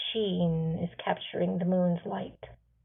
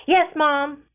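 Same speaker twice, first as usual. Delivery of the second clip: calling back; 7 semitones higher, 7 dB louder than usual. Acted. Boy answering mother from tree.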